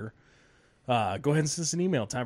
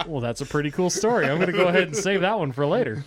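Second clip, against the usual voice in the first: laughing sarcasm; 3 semitones higher, 4 dB louder, faster than usual. Retold or imitated. Retold sarcastic reply.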